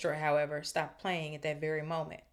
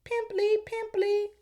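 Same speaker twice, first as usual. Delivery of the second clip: high, loud taunting yell; 8 dB louder, slower than usual. A narrator's reading. Peeves chasing Myrtle with peanuts, high yell.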